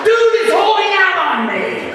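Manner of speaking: high-pitched mock outrage; loud comic protest; indignant outburst. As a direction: wail it as a jealous kid, hammed up. Young self outraged at being left out.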